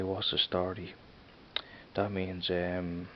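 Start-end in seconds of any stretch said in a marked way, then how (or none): 0.0-0.9 Dublin greeting, said casually; Dublin accent. Shown as a demonstration. Showing viewers how Dublin says hello, Dublin accent. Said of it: "in Dublin accent we say".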